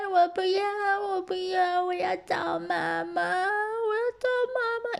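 put-on high, slow whiny wail of a spoiled little boy; mock tantrum, high and drawn out; hammed-up crying kid. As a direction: wail like a brat begging for his mom. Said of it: "他就一直哭着啊".

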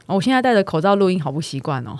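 talking through a face mask; muffled by a mask. Real, not acted.

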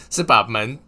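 loud, laughing as he speaks; can't hold back the giggles; laughing through the punchline. Real, not acted. Vlogger cracking up at his own punchline, laughing loudly.

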